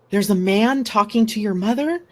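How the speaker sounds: retold puzzled question; bewildered, rising question; totally confused. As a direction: ask it in disbelief. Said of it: "totally confused".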